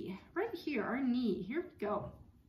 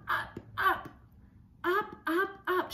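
excited rising ups; 8 semitones higher than usual. Acted. Reading to child, rising.

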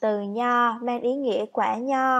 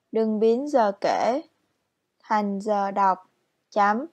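dictating; 3 dB louder than usual. Shown as a demonstration. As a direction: read it out like a dictation, word by word. Teacher reads exercise with gaps.

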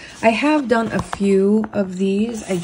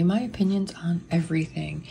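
whispering; 6 dB quieter than usual. Real, not acted. Reading title softly.

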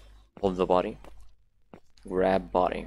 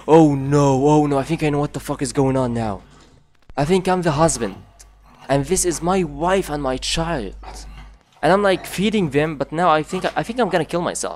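gasp, then higher, louder, rushing words; dread realization; 3 semitones higher, 5 dB louder than usual. Real, not acted. Player realizes he feeds his wife and child, gasping dread. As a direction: horror dawning as it clicks. Realizes the game's dark twist.

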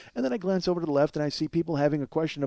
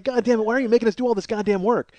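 higher-pitched mock exasperation; mock angry uvula; 6 semitones higher than usual. Uvula griping at the man who talks too fast, mock angry. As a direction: complain like an overworked body part, lightly hammed. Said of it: "my uvula is so fucking angry".

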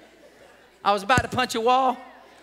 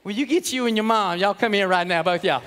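stern dad; 6 semitones lower than usual. Acted. Dad summons son and mom.

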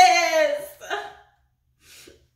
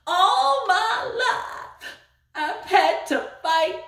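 movie line again; 2 semitones higher than usual. Retold or imitated. Repeating her favorite line for the crowd, mock-dramatic. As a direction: savour each word like a tragic heroine. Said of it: "Did you like my line?".

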